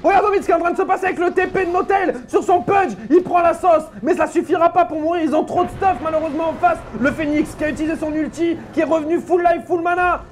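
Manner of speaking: fast live game commentary; play-by-play. Acted. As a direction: call the action like a caster.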